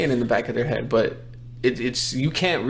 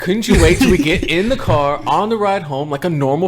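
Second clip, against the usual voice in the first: higher, quick mock complaint; mock exasperation; 4 semitones higher, 4 dB louder than usual. Son jokingly scolding his dad for crying in public, mock exasperated. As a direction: plead in playful exasperation.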